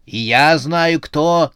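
heated exclamation; shouted. A narrator's reading. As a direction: cry out to cut in on the accusation. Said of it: "закричал председатель".

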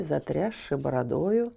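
ordinary delivery

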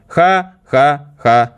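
slow, stiff mechanical robot voice; a robot laughing ha-ha-ha, then drawling; robot Werther voice. Retold or imitated. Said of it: "Он разговаривал так".

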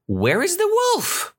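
high-pitched acted question; villagers asking. Villagers reaching the shepherd boy, high urgent question. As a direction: call it out very high. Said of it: "they asked".

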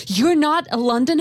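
loud, high-pitched mock astonishment; astonished retelling. Woman in a London pub to visiting teacher, astonished. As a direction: imitate someone taken aback, pitch jumping up.

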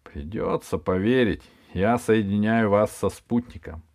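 hoarse, husky voice. Acted. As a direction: speak it with a hoarse voice. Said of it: "сиплый голос произнёс".

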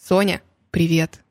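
low, slow sultry greeting; томный голос. Acted. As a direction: purr it like a femme fatale. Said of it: "Вы очень томным голосом сказали мне". (томно, медленно, с придыханием)

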